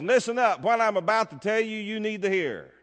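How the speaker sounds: blunt paraphrase. Retold or imitated. Preacher giving his own translation of Jesus' words, emphatic. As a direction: make them listen, then ease off at the end. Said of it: "Randy Cheek's translation says".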